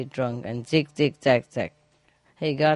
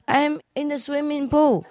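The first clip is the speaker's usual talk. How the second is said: wife, laughing; 10 semitones higher than usual. Acted. Joke, wife answers, teller laughing.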